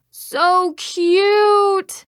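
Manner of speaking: high, gushing squeal of affection; delighted cooing. Acted. Cook admiring her own pancakes, high delighted coo. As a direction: draw it out high, melting with delight. Cooing over the cakes she made.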